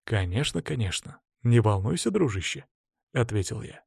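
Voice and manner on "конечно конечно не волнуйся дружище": soft, offhand reassurance; hushed, easygoing brush-off; soothing. Acted. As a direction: placate a friend quietly. Soothing reply to impatient friend.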